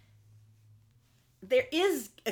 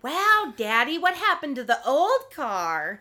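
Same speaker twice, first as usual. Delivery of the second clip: put-on excited kid; 4 semitones higher, 6 dB louder, slower than usual. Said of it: "his kids are like".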